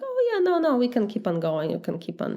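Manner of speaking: high-pitched start, settling into easy agreement; falsely agreeable. Acted. Immigrant lying to mocking friends that it's fine, falsely agreeable. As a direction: brush it off with mock breeziness. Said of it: "I would be like".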